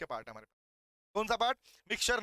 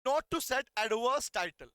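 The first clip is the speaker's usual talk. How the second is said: slow, measured repeat of the heading; much slower than usual. Shown as a demonstration. Teacher repeating the heading for students to write. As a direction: say it again slowly for them to copy. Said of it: "इनको ऐसे पढ़ना है".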